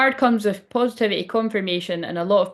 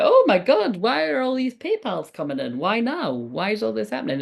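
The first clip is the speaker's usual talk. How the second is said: excited disbelief; 4 semitones higher than usual. Retold or imitated. Acted delight at money arriving.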